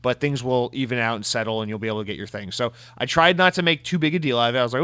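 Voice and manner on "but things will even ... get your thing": imitating a soothing corporate tweet, easing down; mock-reassuring, trailing down; mock reassurance. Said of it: "as if to reassure".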